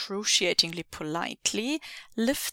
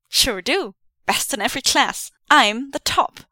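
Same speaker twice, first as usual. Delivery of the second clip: smug; 4 semitones higher, 7 dB louder than usual. Acted. Pleased bragging.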